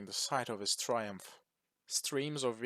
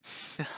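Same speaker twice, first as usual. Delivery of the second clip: breathy laugh; 3 dB quieter than usual. Acted. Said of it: "with mirth in his voice".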